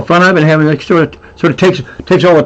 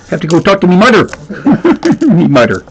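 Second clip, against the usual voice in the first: put-on Newfoundland accent. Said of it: "getting up in the Newfoundland".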